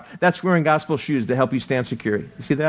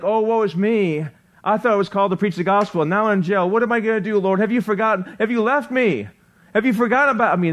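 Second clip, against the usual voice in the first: higher, hammed-up whining lament; mock self-pity; 4 semitones higher, faster than usual. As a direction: parody a self-pitying prisoner crying to the Lord. Mock lament of self-pitying preacher.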